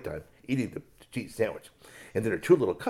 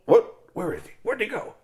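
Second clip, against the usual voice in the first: puzzled search; 12 semitones higher, 8 dB louder than usual. Acted. Mother bear looks for him.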